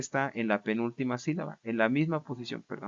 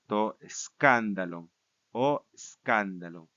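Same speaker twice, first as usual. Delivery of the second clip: "escándalo" said slowly as SKAN-da-lon; measured recitation, "escándalo" stressed on KAN; stress back on antepenult. Shown as a demonstration. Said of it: "Regresa a la misma posición".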